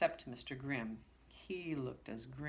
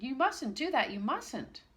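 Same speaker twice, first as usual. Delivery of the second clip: shouting; 8 semitones higher, 6 dB louder than usual. Acted. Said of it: "he shouted".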